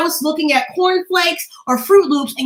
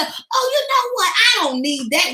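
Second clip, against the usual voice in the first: slow, high, fake-teary refusal; mock tearful humility; 5 semitones higher, slower than usual. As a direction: whimper it like a martyr turning down help. Mocking falsely humble refusal.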